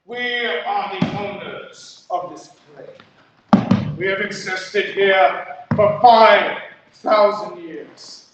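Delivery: slow, grave declaration; solemn creature. Acted. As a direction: lay claim to the land slowly. Creature declares ownership slowly.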